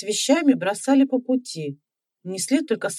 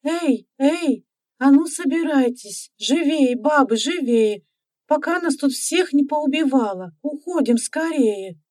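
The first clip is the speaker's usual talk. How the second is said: shouting; 5 semitones higher than usual. Acted. Тира runs through the village calling the women out, shouting. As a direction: rouse the whole street, urgent. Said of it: "ринулась по улице с криком".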